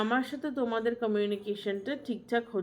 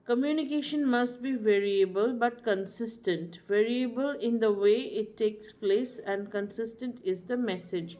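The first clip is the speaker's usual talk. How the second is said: slow maxim; much slower than usual. Shown as a demonstration. Teacher stating a key maxim.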